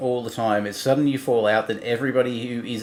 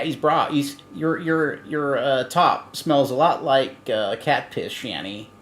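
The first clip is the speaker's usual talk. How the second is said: halting imitation of Rev's accent; mock Rev accent, feeling for the words; attempted Rev accent; slower than usual. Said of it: "as a rev accent".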